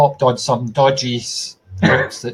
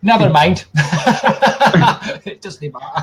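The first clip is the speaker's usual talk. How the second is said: laughing. Real, not acted. Laughing at his own accent.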